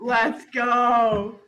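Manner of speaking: loud excited cheer; cheering shout. Real, not acted. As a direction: shout it like a fan. Cheering a hire.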